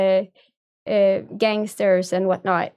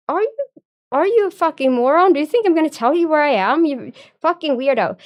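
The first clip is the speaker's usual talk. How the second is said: furious yell; 6 semitones higher, faster than usual. Retold or imitated. Pissed-off streamer yelling at a prank caller she thinks is a troll, furious. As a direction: let the rage spill out, snapping each insult. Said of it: "eventually I was, like, pissed off".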